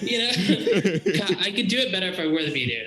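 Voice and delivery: talking through laughter; giggling while speaking; laughing. Real, not acted. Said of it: "laughing at own accent".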